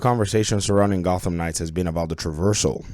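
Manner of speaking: stuffy, congested voice from a cold. Real, not acted. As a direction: talk through a head cold. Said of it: "Sorry about my voice, I have a cold".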